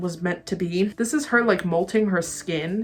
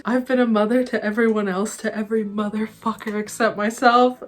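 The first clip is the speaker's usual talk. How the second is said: belting along with the song; 2 semitones higher than usual. Retold or imitated. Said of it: "the way she yells that".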